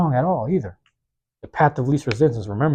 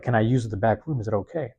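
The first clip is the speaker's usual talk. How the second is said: soft, hesitant request; timid ask; 2 semitones lower, 5 dB quieter than usual. Retold or imitated. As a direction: ask politely, almost under breath. Retells asking permission timidly.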